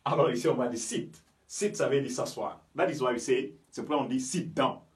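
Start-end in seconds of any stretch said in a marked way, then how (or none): 0.8-1.1 "sit" with a French ee vowel. Shown as a demonstration. Teacher shows i without a following vowel, French ee. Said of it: "comme si on avait un i en français".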